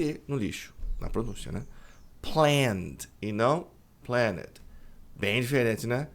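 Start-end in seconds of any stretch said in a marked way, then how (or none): 2.2-4.6 planned com E mudo, bem devagar; correct pronunciation. Shown as a demonstration. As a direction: contrast planned against planet slowly. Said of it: "A pronúncia correta é planned". (pronúncia lenta de planned)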